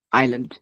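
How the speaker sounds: আইল্যান্ড said as "ai-land", no s; silent S. Shown as a demonstration. Teacher repeating the correct word, silent S. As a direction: keep the s mute in আইল্যান্ড. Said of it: "উচ্চারিত হবে না".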